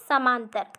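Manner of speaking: समांतर, a syllable of samanantar swallowed; slurred pronunciation. Shown as a demonstration. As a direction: say समांतर, leaving out the middle "na". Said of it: "अस्पष्ट उच्चारण कर रहा है". ("ना" गिराकर समांतर)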